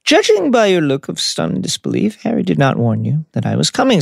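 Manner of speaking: lightly voiced courteous headmaster, starting high; pleasantly unruffled, with a hint of character voice; Dumbledore, pleasantly. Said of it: "said Dumbledore pleasantly".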